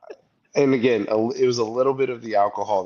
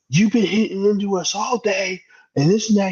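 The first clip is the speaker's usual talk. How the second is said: high, mocking whiny voice of the angry dad; 12 semitones higher than usual. Retelling the golf dad yelling at him, high mock whine. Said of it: "he's like".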